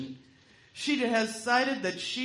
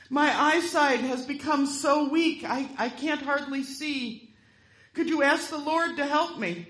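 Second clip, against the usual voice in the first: feigned frailty; 5 semitones higher than usual. Acted. Smith feigning weak eyesight.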